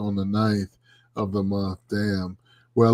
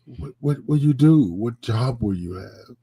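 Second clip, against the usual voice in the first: imitating a questioning Cuban father; lightly voiced Cuban accent, puzzled questions; thick Cuban accent. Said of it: "in his thick Cuban accent".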